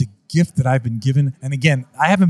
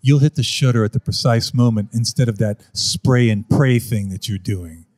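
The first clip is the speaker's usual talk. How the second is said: smug photographer; 4 semitones lower, slower than usual. Retold or imitated. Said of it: "and he goes".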